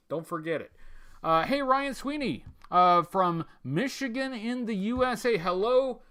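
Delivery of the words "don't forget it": a soft, lower aside; softer echo. Acted. Host echoing the motto to his chat, softer. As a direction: murmur it again under the breath.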